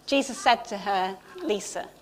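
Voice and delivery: the preacher hearing Jesus call her own name; tender reading. Shown as a demonstration. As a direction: breathe the name gently as if being called.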